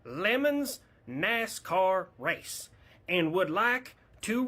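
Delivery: very slow, high, laboured read; letter read aloud. Acted. Florida fan asking for Winnebago parking, slow high letter voice. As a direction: spell out each phrase, high and plodding.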